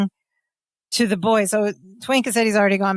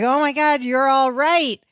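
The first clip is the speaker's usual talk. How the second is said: higher-pitched, mildly acted delight; ecstatic; 4 semitones higher than usual. Balki finds the missing man safe, ecstatic. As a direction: imitate overjoyed relief, lightly. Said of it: "Balki is ecstatic".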